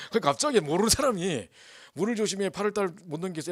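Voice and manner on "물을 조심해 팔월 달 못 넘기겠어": mock ominous warning. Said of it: "이러고 가버리니까".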